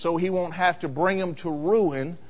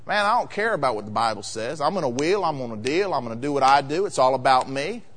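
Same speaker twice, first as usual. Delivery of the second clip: careless Monday self; 5 semitones lower than usual. Retold or imitated. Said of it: "And then on Monday".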